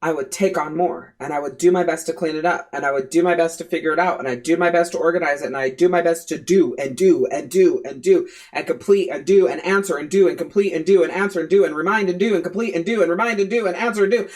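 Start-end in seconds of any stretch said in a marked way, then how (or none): 2.8-14.3 a relentless run of tasks that speeds up toward the end; rushed droning list. Shown as a demonstration. Mother mimicking her endless to-do list, rushed and droning. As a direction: rattle off the chores as one breathless chain. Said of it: "why am I saying it like that".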